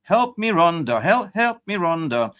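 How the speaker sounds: high, pleading whine of mock despair; mock frustrated wail. To his co-host over a bad player, high mock whine. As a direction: wail it high like a begging kid. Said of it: "I'm frustrated".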